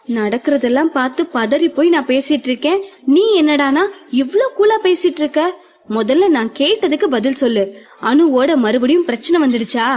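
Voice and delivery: urgent voice. Acted. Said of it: "அவசர குரலில்".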